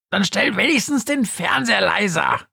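high crowing call; crowing Günther. Acted. Günther kräht Lilith an, hoch und krähend. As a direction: crow it up at the ghost's high pitch. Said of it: "kräht Günther".

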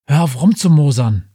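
loud, curt angry bark; barked back. Acted. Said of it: "blafft Befana zurück".

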